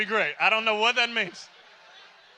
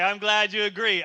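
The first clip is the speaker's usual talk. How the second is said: louder, rehearsed reply; kid reciting script; 5 dB louder than usual. Acted. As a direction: carry on with the memorized script regardless. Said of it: "He was going through his script".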